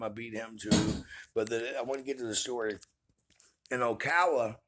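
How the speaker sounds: talking around a chew; chewing while talking. Real, not acted. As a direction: mouth full of gum. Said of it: "sorry, I'm, uh, chewing this stuff".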